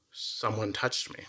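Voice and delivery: slow, softened, deliberate words; hushed, measured realization, lightly acted; Jesus. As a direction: stop and say it slowly, quietly. Acts Jesus stopping in crowd.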